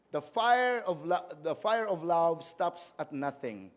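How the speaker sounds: The fire of love read slowly, weight on fire; measured and deliberate; a careful pulpit reading; slow scripture reading. Shown as a demonstration. Rereading verse slowly.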